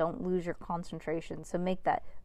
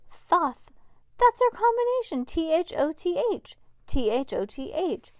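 high, loud eureka; excited; 10 semitones higher, 6 dB louder than usual. Acted. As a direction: announce the discovery thrilled. Max discovers the combination.

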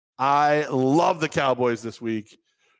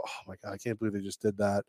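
hushed adult reaction; 5 semitones lower, 10 dB quieter, faster than usual. Retold or imitated. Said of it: "a normal adult would look at a baby".

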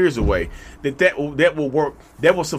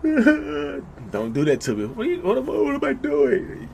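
slow, higher disbelieving recoil; mock disgust; 9 semitones higher, 4 dB quieter than usual. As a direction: play it appalled and amused, drawn out. Mock horrified reaction.

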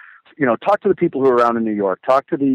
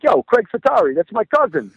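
much higher, shouting with excitement; excited shout; 8 semitones higher than usual. Retold or imitated. Old man in a suit at a business conference boasting, high excited shout. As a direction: blurt it out like a proud fan. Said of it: "He's like".

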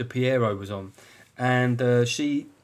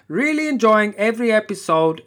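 higher, louder plummy posh read; 8 semitones higher, 5 dB louder than usual. Retold or imitated. Review reading slipping into a hammed-up posh voice. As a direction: go suddenly posh and grand. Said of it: "This now went posh".

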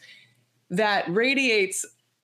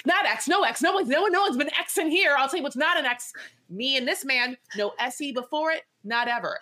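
higher, rushed protest, lightly hammed-up; mock outraged denial; 5 semitones higher, faster than usual. Host imitating Shekinah denying her ex on stage, mock outraged. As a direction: insist hard that he is not her ex. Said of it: "Shekinah just loses her mind".

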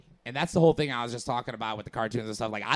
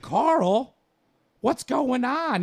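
mock call to Carl; 10 semitones higher, 4 dB louder, much slower than usual. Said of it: "And they'd be like".

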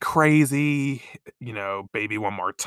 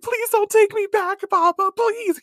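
put-on much higher, pleading child voice; pleading little girl; 4 dB louder than usual. Child begging her adoptive father not to return her, high and pleading. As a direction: beg like a tearful little girl. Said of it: "And she, like, starts crying".

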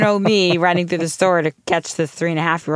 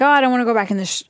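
put-on kid voice; 6 semitones higher, much faster than usual. Son refusing the shopping cart.

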